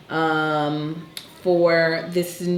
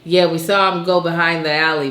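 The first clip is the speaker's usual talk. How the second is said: beat cop voice; 5 dB louder than usual. Retold or imitated. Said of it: "I could see myself being a beat cop".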